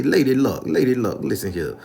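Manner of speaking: loud, hammed-up hustler address; playful movie tough talk; seventies movie character. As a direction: call out like a seventies film player, falling away at the end. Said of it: "We talking like we in the seventies movie".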